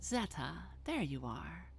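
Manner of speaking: lightly voiced vampire, politely probing; Babs. Malkavian greets the cave's owner about a book, lightly acted coaxing.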